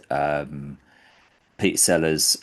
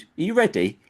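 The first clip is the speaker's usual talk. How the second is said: much higher, teasing question; theatrical warning; 13 semitones higher, faster than usual. Retold or imitated. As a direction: build up the reveal playfully. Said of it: "he goes".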